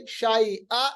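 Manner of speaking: शाइआ with only one fatha; nun qutni reading. Shown as a demonstration. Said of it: "एक जबर को बरकरार रखेंगे".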